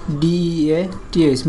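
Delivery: slow dictation; slow spelling. Shown as a demonstration. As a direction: spell ডিইএটিএইচ one letter at a time, slowly. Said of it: "যেমন ধরো death".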